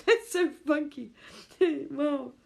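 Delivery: high, amused disbelief; laughing wow. Real, not acted. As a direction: chuckle through it. Laughing at the idea.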